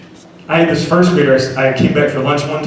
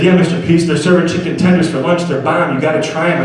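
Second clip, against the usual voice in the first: put-on excited kid; 5 semitones higher than usual. Cheerful first grader about chicken.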